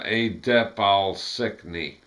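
Adep al-Sikni slowly, as encyclopedia backwards; slow reversed encyclopedia. Shown as a demonstration.

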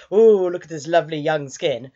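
lightly voiced creep, drawn to his prey; leering pervert. Pervert upstairs to his captive, mock leering. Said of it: "this pervert upstairs, who's all like".

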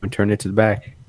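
muffled, mic facing away; in a closet. Real, not acted. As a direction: sound boxed in behind the mic. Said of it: "you sound like you're in a closet".

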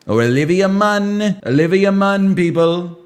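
a hint of Trump hype; Trump impression. Streamer back in his Trump voice. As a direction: announce like a rally. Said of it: "Trump impression".

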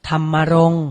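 ธรรมรงค์ said carefully and firmly as tham-ma-rong; careful teaching read of ธรรมรงค์; pronunciation model. Shown as a demonstration. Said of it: "อ่านว่า".

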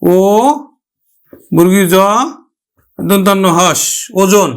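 ও, জ, ন spelled out then ওজন; teacher models ওজন as o-jon; spelling then word. Shown as a demonstration. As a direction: build ওজন letter by letter. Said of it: "উচ্চারণ করব".

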